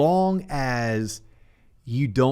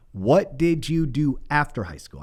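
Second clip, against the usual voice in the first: deliberate question; slower than usual. Shown as a demonstration. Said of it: "learned to ask in that manner".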